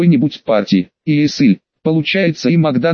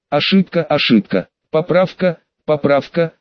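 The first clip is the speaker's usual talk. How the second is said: playful mechanical robot voice. Acted. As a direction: read it like a joking robot. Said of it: "дурачись, голосом робота".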